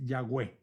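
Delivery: Yahweh said "ya-gweh"; Yahweh pronunciation. Shown as a demonstration. Teacher giving the scholars' pronunciation, Yahweh said "ya-gweh". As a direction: end Yahweh on a clear "gweh". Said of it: "la pronunciación que debería de usarse".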